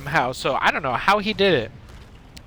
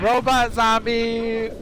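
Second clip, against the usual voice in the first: excited shout; 6 semitones higher, much slower than usual. Real, not acted. Hyping robot zombie character.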